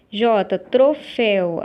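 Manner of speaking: each syllable drawn out slowly, as if dictating; slow dictation. Shown as a demonstration. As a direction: read the word slowly for the class to note. Teacher reads exercise word aloud. (leitura lenta e pausada da palavra)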